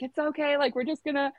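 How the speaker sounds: retold easygoing comfort; nice, reassuring. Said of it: "so nice about it".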